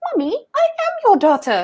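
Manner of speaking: high, sing-song voice with swooping pitch. Retelling a film scene where the old woman speaks: Anne's voice. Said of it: "this old woman is speaking with Anne's voice".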